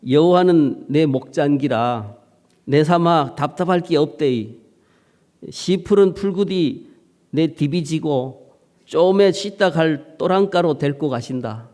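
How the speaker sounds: Psalm read in broad Gyeongsang dialect, lightly hammed; playful Gyeongsang country reading of scripture. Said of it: "지방 번역으로 한번 읽어드릴 테니까".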